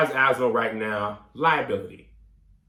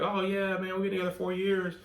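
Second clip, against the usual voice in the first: imitating girlfriend; 6 semitones higher, 5 dB quieter than usual. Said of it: "and she's like".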